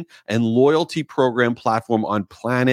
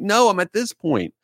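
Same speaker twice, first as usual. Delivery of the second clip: raised, exasperated correction; annoyed reply; 7 semitones higher than usual. Retold or imitated. Answering a friend's spoiler question, raised annoyed reply. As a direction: insist on where you really are.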